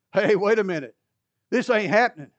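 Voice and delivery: loud, protesting Peter; indignant refusal. Acted. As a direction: push back hard on the idea. Peter refusing the foot washing.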